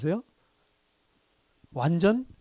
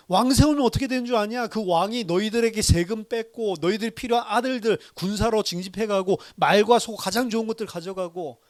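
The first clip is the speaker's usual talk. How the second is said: rebuking; 4 semitones higher than usual. Retold or imitated. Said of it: "막 질책을 하면서".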